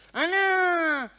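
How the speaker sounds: high, loud, sneering schoolyard jeer; imitating taunting kid. Classmate taunting her son, high loud jeering imitation. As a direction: sneer it like a nasty kid on the playground. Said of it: "Cuando a mi hijo le dicen".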